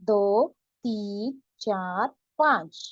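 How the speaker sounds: slow, deliberate count for students; teacher counting one to five slowly; slow counting aloud. Shown as a demonstration. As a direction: spell out each number slowly. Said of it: "एक पढ़ेंगे किस तरीके से".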